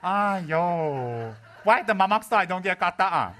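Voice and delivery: loud, whiny Malaysian-English complaint; mock whiny student. Rinpoche plays himself complaining to a student, loud and whiny. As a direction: whine like a student denied a kata.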